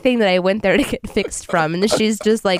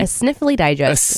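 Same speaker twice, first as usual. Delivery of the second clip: stuffy cold voice. Real, not acted. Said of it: "I do sound like a man".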